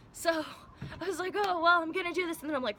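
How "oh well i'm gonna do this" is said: mock confident. Mock confident self-quote.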